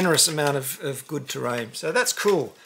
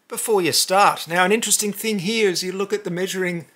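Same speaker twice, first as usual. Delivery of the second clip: normal talking voice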